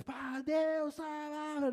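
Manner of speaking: high, exaggerated wailing prayer; hammed-up prayer cry, lightly done; mock shouted prayer. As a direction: parody someone crying out to God. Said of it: "não quer dizer que você tem que orar gritando".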